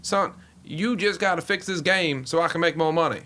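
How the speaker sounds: lightly voiced blustering team owner; a hint of a folksy, insistent owner; Jerry Jones impression. Team owner lecturing the commissioner at a meeting, lightly put-on owner voice. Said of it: "the Jerry Jones wasn't bad".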